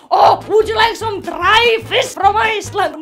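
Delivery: loud, hammed-up host offering a dish; mock-enthusiastic waiter, belted out; mock food offer. Mimics someone offering unappetising food.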